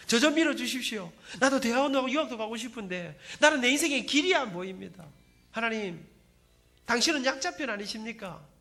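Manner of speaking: tearful pleading prayer. Retold or imitated. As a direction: plead out loud like a desperate young man. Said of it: "울면서 하나님 앞에 기도 많이 했습니다".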